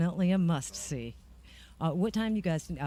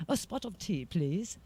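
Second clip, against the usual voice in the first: mock British accent; 2 semitones higher, 5 dB quieter, slower than usual. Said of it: "I'll talk British".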